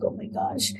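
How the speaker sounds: hushed, breathy exclamation; quietly stunned she found the phone; retold whisper. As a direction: gasp it without voice. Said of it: "I'm like".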